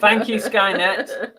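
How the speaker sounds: slow, giggly thanks; laughing through words. Real, not acted. Repeats thanks amid laughter.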